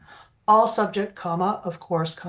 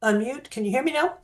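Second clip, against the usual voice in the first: hoarse from a bad cold; raspy, getting over a cold; 3 semitones higher than usual. Real, not acted. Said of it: "Excuse my voice, I'm getting over a pretty bad cold".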